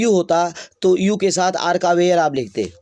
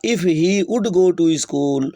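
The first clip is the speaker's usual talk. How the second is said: slow dictation; much slower than usual. Shown as a demonstration. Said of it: "dictating slowly".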